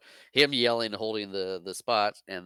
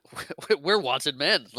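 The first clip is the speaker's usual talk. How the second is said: high, loud put-on bragging; mock boasting; 6 semitones higher, 6 dB louder than usual. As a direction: imitate a blustering bully, pitched way up. Retold cantina bully boasting, mocked.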